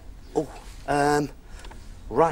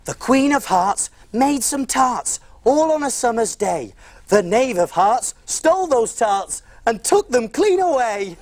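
nursery rhyme recitation. Acted.

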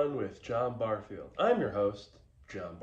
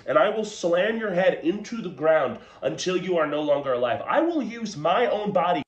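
mock rage; 4 semitones higher than usual. Host answers heckler in mock rage.

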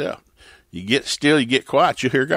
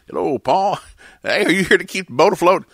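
higher, louder playful voicing of the angel and Paul; acted angel dialogue; 8 semitones higher, 4 dB louder than usual. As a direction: play it like a cheeky bible skit.

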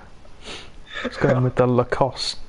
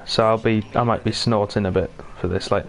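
talking with a man flu cold; stuffy man flu voice, sniffly. Real, not acted. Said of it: "I have man flu".

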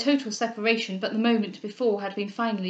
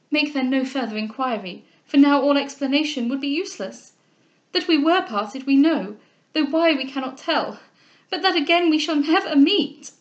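building higher and louder; impassioned, emphatic farewell; distressed declaration; 4 semitones higher, 5 dB louder than usual. Acted. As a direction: insist in rising anguish. Tearful heroine declares final parting.

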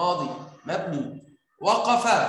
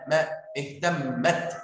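slow demo pronunciation; 3 semitones lower, slower than usual. Shown as a demonstration. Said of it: "الميم اللي هو آخر حرف نطقته إزاي".

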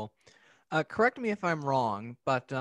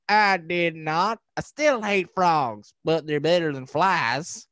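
slow, louder, higher stubborn grumble; grudging cartoon grump; 4 semitones higher, 5 dB louder, slower than usual. Frog-hating man refusing to admit he loves frogs, slow stubborn grumble. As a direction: drag out the grudging punchline. Cartoon man's punchline retort.

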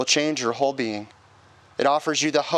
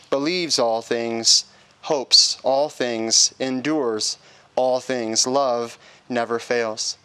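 slow, measured reading of Scripture; slower than usual. Real, not acted. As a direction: read each line with solemn weight. Officiant reads 1 Corinthians 13.

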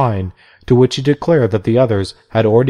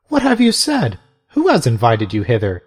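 indignant disbelief. Acted. Mother Macrina confronting the bishop, outraged. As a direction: cry out in shocked outrage. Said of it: "she exclaimed".

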